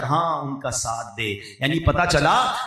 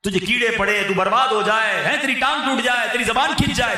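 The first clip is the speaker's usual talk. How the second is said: angry curse; 4 semitones higher than usual. Retold or imitated. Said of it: "غصے میں کہا ہے".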